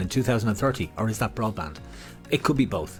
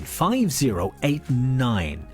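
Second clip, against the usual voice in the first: slow number reading; 2 semitones higher, much slower than usual. Acted.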